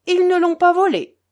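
loud, high jeering cry; pitiless shout. A narrator's reading. Grouchenka shouts her scorn at the locked-out Poles. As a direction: jeer at them without pity. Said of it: "cria Grouchenka impitoyable".

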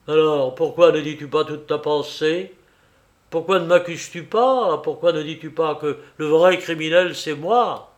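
mildly agitated, insistent questioning; indignant challenge. Acted. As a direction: dare him to accuse you. Father challenges son to accuse him.

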